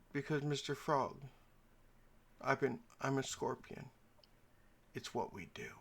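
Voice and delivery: fading, matter-of-fact resignation; resigned scorpion. Acted. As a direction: admit it quietly as the scorpion. Scorpion explains killing them both.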